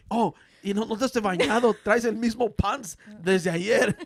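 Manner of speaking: high, slow nagging mother; mock scolding mom. Telenovela mom nagging her son, high and slow. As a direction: nag him about dirty pants, slowly.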